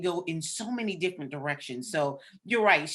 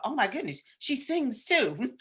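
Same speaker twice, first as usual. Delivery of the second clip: amazed surprise; 8 semitones higher than usual. Retold or imitated. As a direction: act like you just found out. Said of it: "And I thought".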